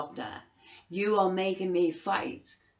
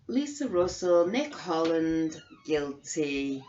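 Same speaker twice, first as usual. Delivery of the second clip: shouted condemnation; shouted verdict; slower than usual. Real, not acted. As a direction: bark the verdict at them. Denouncing named officials.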